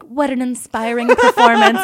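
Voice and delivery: high, loud, overdone admiration; hammed-up compliment; mock gushing praise. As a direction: gush like an over-impressed waiter. Waiters' praise, retold mockingly.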